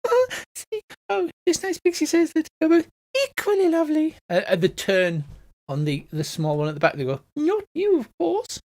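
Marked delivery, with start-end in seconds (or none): 0.1-4.2 very high, dainty squeak; tittering Victorian lady flower. Acted. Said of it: "Victorian ladies with little fans". 7.3-8.6 small, very high squeaky voice; squeaky flower. Acted. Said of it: "a small squeaky voice".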